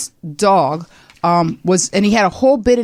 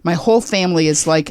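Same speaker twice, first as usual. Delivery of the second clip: normal talking voice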